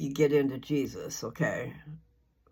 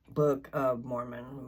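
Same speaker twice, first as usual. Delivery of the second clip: careful redo; 2 semitones lower, slower than usual. Real, not acted. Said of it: "My words don't come out of my mouth".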